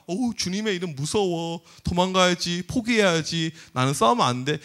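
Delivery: lightly acted, low-voiced dread; slow down and pretend to be scared; mock trembling fear. Goliath supposedly hearing the Lord's name, mock fear. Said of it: "벌벌 떨었을까요".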